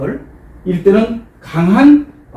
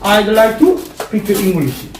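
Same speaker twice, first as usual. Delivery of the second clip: every word drawn out slowly; slow it right down for repeating; slow model sentence; much slower than usual. Shown as a demonstration. Teacher models the phrase slowly for students. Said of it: "공통 표현이죠".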